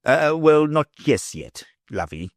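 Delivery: uneasy. A narrator's reading. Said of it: "her husband uneasily replied".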